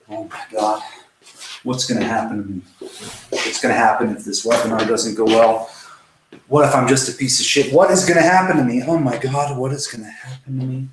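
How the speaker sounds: acted fretting, swelling then sinking to a mutter; worked-up victim. Shown as a demonstration. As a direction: fret aloud like a demonstrated victim mindset. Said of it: "let's just demonstrate that victim exercise".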